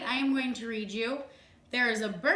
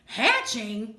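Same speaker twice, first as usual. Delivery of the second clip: alarmed disbelief; 2 semitones higher, 4 dB louder than usual. Acted. Gerald alarmed, eggs hatching.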